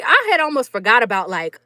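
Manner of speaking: ordinary talk, nothing marked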